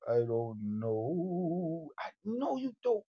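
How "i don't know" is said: slow and low. Acted. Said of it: "repeated three ways".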